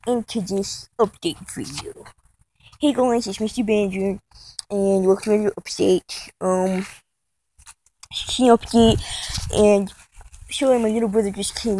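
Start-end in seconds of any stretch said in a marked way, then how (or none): 2.8-9.0 low, subdued vlogger greeting; mock vlog intro. Vlogger imitating a rival's update video intro, low and subdued. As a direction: drop the voice for a lightly mocked intro.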